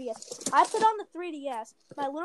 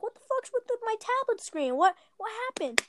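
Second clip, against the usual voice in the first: retold angry uncle; 8 semitones higher than usual. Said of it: "he's, like, mad".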